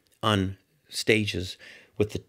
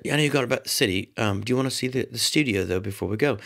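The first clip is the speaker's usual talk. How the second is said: bad English accent; faster than usual. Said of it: "the worst English accent in the world".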